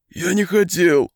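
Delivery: high, tearful lament; crying wail. A narrator's reading. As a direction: plead through tears. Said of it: "плача запричитал он". (плача, причитая)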